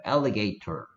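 alligator with a crisp British t and no r; British alligator, each sound clear; British accent. Shown as a demonstration. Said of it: "alligator 이런 식으로 해".

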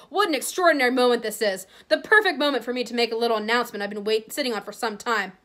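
a lightly voiced grand showman; pompous Lockhart. Vain author makes his big announcement to the crowd, lightly pompous. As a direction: announce it as if to adoring fans.

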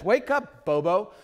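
high, loud wake-up call; playful voice of the Holy Spirit; Holy Spirit nudge. Retold or imitated. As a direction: call him out of his stupor. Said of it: "the Holy Spirit says".

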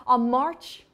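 tentative British accent; amateur British accent, unsure of itself; British accent attempt. Shown as a demonstration. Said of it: "how to do the British accent".

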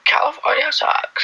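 mock Californian American, pitched high; American accent. Asked by viewers for American accents, mock Californian. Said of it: "Someone said do American accents".

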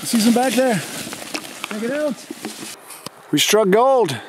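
high, thrilled calls at the find; real delight at spotting mushrooms; excited. Real, not acted. Host spotting mushrooms for the viewers, high and excited.

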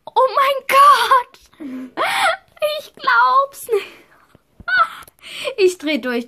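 high, crying shout of joy; overjoyed crying. Real, not acted. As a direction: sob out the disbelief of a dream come true. Sees horse is hers. (Mädchen schluchzt vor Freude über ihr Pferd)

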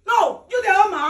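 slow, deliberate angry shout; slowed-down furious accusation; angry retort. Real, not acted. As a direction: spell it out to her, furious. Angry quarrel over her room.

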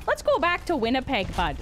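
light hammed-up Canadian accent; mock Canadian accent. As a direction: imitate a friend's exaggerated Canadian impression. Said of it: "Dan's impersonation of me".

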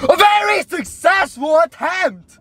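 sudden slow yell; loud sharp voice. Real, not acted. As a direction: belt it out triumphantly. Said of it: "Why are you yelling?".

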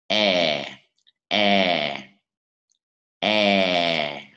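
long "E" with lips spread wide, falling; wide-lipped long E. Shown as a demonstration. Teacher models the wide-mouthed vowel for learners, wide-lipped long E. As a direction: stretch "E" out wide, letting the pitch sink. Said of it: "cái âm bè môi".

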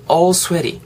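"all sweaty" with open "aw" and tapped t; flapped t. Shown as a demonstration. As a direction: model "sweaty" as "swe-ree" after "all". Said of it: "리을 정도로 발음이". ("all sweaty"의 t를 리을처럼 굴려 발음)

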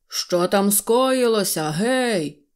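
slow, gruff military call; suspicious general yelling down the train; general shouting. A narrator's reading. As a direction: bark the question like a suspicious general. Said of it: "крикнув генерал".

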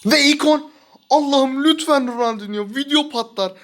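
high, loud thrilled yelling; excited shout. Real, not acted. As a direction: cry out in hope. Ikon screen appears, hoping Ronaldinho.

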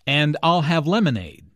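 "I'll" and "lemonade" stressed, falling at the end. Shown as a demonstration. Anna ordering her drink, stressing "I'll" and "lemonade". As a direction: lean on "I'll" and land hard on "lemonade". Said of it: "Notice how Anna stresses".

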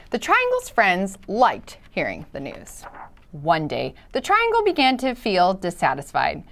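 storybook read-aloud, lively and clear; reading to children. Acted. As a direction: read it like to a class. Reads picture book aloud.

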